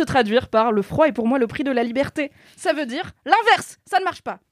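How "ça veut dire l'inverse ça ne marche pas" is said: indignant shout. Real, not acted. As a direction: yell the point out. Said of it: "j'ai peut-être crié dans ton casque".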